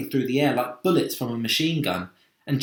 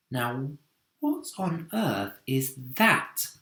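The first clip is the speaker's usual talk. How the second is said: wondering; 3 semitones higher, slower than usual. Acted. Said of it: "asked James".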